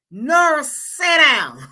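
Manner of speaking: loud playful mock scold, with a laugh. Host scolding commenter Nora in mock sternness, loud and laughing. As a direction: bark it at her like a teasing auntie.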